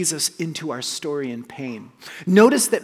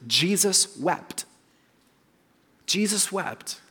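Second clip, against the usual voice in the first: Jesus wept, drawn out, each word weighed; slow and weighty; 2 semitones higher, 3 dB quieter, slower than usual. Shown as a demonstration. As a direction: let Jesus wept land slowly. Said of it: "It's two words".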